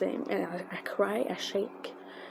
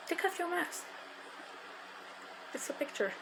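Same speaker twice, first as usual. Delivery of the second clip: soft, high retold instruction; light, lifted voice, kept soft; gentle coaxing; 9 semitones higher, 10 dB quieter than usual. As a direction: imitate him coaxing a shy fan. Acting out his instruction for the photo.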